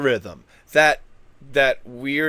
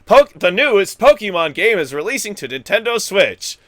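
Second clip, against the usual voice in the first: excited, louder and higher, stretched out; all up and down; 5 semitones higher, 7 dB louder than usual. Shown as a demonstration. Showing viewers how up and down he gets, in loud, high excitement. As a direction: gush about it like hot news. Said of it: "I could be all up and down".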